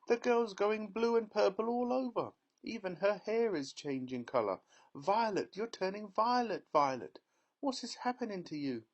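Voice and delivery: very high, frantic cries; shrill hysterical mother. Acted. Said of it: "yelled Missus Beauregard".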